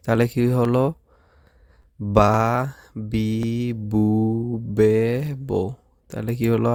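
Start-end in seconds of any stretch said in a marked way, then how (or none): 2.0-5.7 বা বি বু বে বো said slowly and separately; kana drill. Shown as a demonstration. Teacher drilling the students on voiced kana. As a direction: model each syllable for repeating. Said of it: "আবার আমার সাথে উচ্চারণ করেন".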